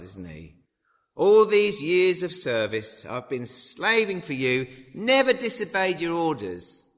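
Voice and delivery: resentful son protesting to his father; angry older brother. Acted. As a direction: hammer each word like a grievance. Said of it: "the older brother became angry".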